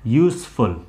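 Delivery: "यूज़फुल" said "yoos-ful", s sound, falling; yoosful correct. Shown as a demonstration. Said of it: "आप दोनों बोल सकते हो". ("यूज़फुल" s ध्वनि के साथ)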